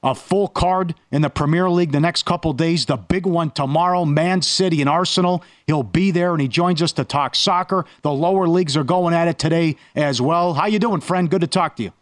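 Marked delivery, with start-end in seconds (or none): 0.0-10.5 ad read. Acted. Ad read and guest intro.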